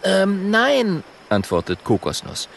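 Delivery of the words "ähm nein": higher, louder quick apology; Kokosnuss's voice. Acted. Kokosnuss apologising to the hippo, higher and louder. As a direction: apologise high like a little dragon.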